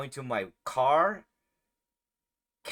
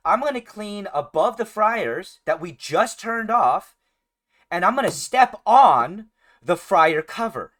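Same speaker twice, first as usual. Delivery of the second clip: higher, louder, slow mock announcement; mocking the boss; 6 semitones higher, 8 dB louder than usual. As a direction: play the clueless boss. Mocking the boss's decision.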